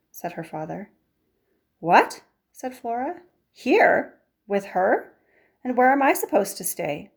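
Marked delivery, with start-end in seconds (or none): 1.8-2.2 shocked what. Acted. Flora hears shocking plan. 3.5-7.1 higher, louder outraged questions; indignant disbelief. Acted. Daughter objecting to her mother's plan, outraged. Flora protests squirrel staying.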